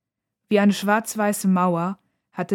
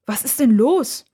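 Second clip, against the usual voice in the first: slow, higher-pitched worried question; tentative, rising inquiry; hesitant; 5 semitones higher, 5 dB louder than usual. A narrator's reading. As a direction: ask cautiously, drawing it out. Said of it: "fragt Nora zögernd".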